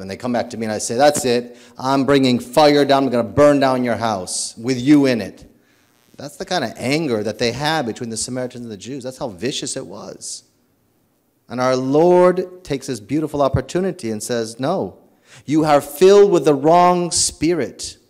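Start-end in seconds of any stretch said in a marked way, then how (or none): 1.0-5.5 a hint of a louder vengeful threat; playfully hammed-up rage at the house; mock fury. Priest imagines angry revenge threat. 14.6-18.0 higher and louder correction; stern rebuke. Retold or imitated. Lord rebukes the angry disciples.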